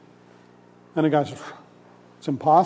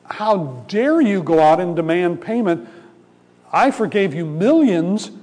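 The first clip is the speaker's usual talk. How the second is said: raised, slow rebuke from a furious king; angry king; 2 semitones higher, 3 dB louder than usual. Retold or imitated. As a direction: scold the evil servant with mounting outrage. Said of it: "the king was angry".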